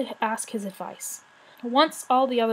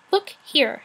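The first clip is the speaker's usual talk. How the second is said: high, loud shrill call; shrill it out at the dragons; 6 semitones higher, 4 dB louder than usual. A narrator's reading. The rat scolding the dragons in a high shrill cry. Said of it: "she shrilled".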